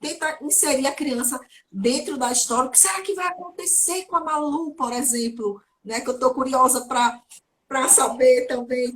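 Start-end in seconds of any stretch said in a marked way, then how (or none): 2.7-4.7 curious storytelling voice. Shown as a demonstration. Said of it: "faz aquelas pausas com suspense".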